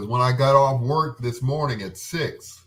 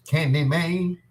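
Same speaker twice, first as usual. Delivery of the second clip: silly voice; 7 semitones higher, slower than usual. Acted. Playful repeated movie name.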